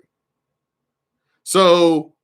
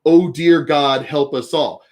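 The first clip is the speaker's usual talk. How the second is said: mock caption reading; 2 semitones lower than usual. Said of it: "But the caption says".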